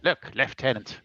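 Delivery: slow, measured antiquarian declaiming; solemn orator. Acted. Character showing Lieutenant an ancient coin, solemn oratory. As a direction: lecture the lieutenant with old-fashioned gravity. Player speaks as pompous character.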